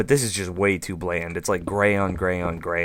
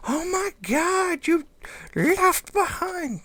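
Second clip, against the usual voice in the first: much higher, slow, squeaky mock outrage; mock viewer yelling; slower than usual. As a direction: squeal like a horrified fan. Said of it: "people are gonna start yelling at me".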